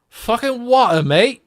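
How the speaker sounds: loud, high mock London geezer yelling water, mate; high, loud mock Cockney outburst; mock Cockney shout. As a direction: belt it like a gobby Cockney. Shouting film slang in British voice.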